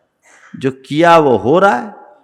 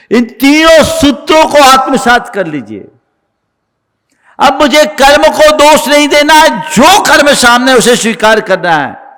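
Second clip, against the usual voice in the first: raised, emphatic sermon voice; forceful preaching; 8 semitones higher, 5 dB louder than usual. Real, not acted. Preacher urging listeners to accept karma, forceful preaching. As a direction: press the teaching on the congregation.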